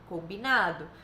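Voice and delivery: a light hint of the child's voice; child agreeing. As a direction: answer like a child who accepts the deal.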